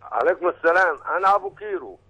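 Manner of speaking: distorted caller line on a phone; phone call audio. Real, not acted. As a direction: caller heard through a bad phone line. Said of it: "معلش الصوت مش واضح؟".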